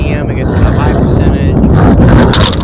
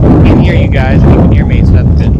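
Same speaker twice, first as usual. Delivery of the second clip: shouting over wind; faster than usual. Real, not acted. Radio check in strong wind.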